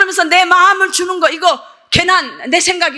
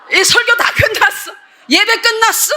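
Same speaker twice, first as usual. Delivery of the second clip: raised exclamation; 8 semitones higher than usual. Retold or imitated. Exclaims that service has ended.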